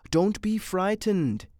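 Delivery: lightly amused, egging her on; amused reassurance. A narrator's reading. Man urges her to touch it, lightly amused. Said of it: "he laughed".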